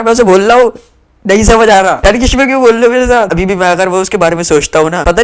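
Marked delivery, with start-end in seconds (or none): 1.2-3.3 angry frustration. Retold or imitated. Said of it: "मुझे आ गया था गुस्सा".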